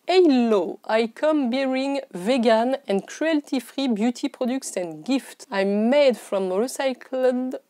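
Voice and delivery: English read slowly with a French accent; halting French-accented English. Real, not acted. Vlogger reading the box's message to viewers, French accent. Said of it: "excusez mon accent".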